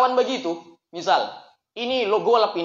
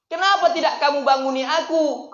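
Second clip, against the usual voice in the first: urgent question; 6 semitones higher than usual. Acted. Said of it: "kata Rasulullah".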